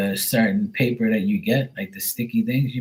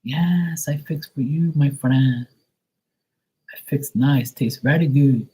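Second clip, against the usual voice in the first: put-on higher Portuguese-accented broken English; mock Portuguese accent; 5 semitones higher, slower than usual. Portuguese Maria promising good food, in a Portuguese accent. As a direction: warmly promise a tasty dish. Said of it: "broken English".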